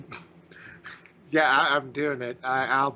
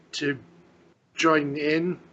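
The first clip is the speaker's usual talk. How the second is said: halting, badly put-on Elvish accent; slower than usual. Elf newcomer asking the instructor to join, in a bad Elvish accent. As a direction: struggle through Elvish in a clumsy accent. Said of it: "with the worst accent, barely able to speak it correctly".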